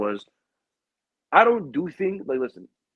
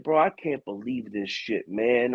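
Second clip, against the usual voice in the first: in my feelings; slower than usual. Retold or imitated. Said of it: "in my feelings".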